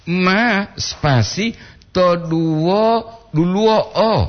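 ma drawn out very slowly; syllable by syllable. Shown as a demonstration. Teacher spells out the syllables of ma slowly. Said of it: "ma to duo lo".

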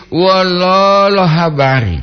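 wololo with a high, lengthened middle O; long double O. Shown as a demonstration. Host telling listeners how it must be said, long O. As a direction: draw out the second O of wololo. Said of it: "Jadi itu mesti".

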